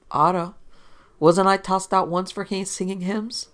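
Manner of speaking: drunken mock indignation; tipsy reporter. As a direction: protest like a mildly sozzled wag. Voices tipsy reporter Evans.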